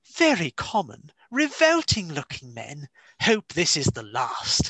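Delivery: swooping, in-character reading-aloud voice. Speaker quotes a second example to prove a point, in a Points of View voice. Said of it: "my best points of view voice".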